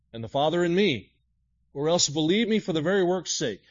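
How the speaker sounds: preached scripture reading; fervent scripture reading. Acted. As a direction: proclaim the verses with fire. Reads verses with force.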